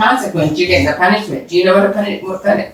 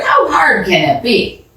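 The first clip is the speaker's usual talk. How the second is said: ordinary delivery, nothing marked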